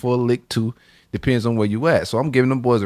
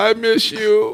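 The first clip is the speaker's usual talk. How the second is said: put-on crying voice, higher-pitched; 10 semitones higher than usual. Retelling how a robbed man phoned his wife: imitating Todd crying. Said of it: "crying like a, like a B I T C H".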